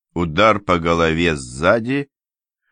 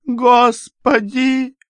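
very high, drawn-out scream of a word; a mother bursting in with a piercing shout; piercing cry; 5 dB louder, much slower than usual. Acted. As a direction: shriek it in horror. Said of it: "пронзительно закричала она".

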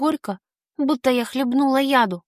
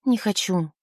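grimacing reluctance; 3 semitones lower than usual. Acted. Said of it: "поморщилась я".

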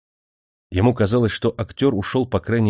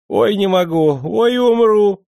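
high, loud squeals of laughter; squealing with laughter; 13 semitones higher, 6 dB louder, slower than usual. Acted. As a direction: shriek it out, helpless with laughing. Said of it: "он взвизгивал". (визжа от смеха)

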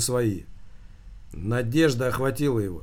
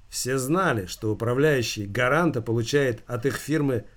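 ordinary delivery, nothing marked

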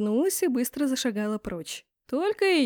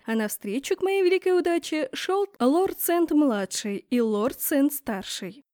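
ordinary delivery

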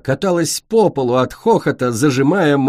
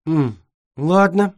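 wary; 6 semitones higher, slower than usual. Acted. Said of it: "с опаской взглянуло".

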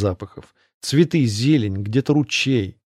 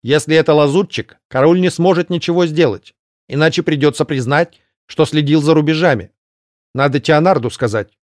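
gargoyle voice; 5 semitones higher, 3 dB louder than usual. Acted. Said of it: "ответила неожиданно многословно".

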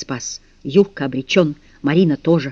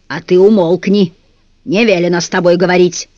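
louder, curt command to shut up; gruff order; 5 dB louder than usual. Acted. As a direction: shut him down like a stern guard. Bass guard silencing prisoner.

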